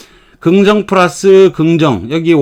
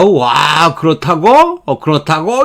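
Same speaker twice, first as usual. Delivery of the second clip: rising "그렇다고?" in disbelief; mock surprise; slower than usual. Shown as a demonstration. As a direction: sound surprised. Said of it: "이렇게 되는 거죠".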